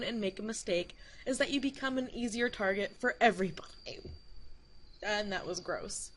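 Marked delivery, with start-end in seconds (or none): 5.0-6.1 hiccup. Real, not acted. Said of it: "hiccuped when I said that".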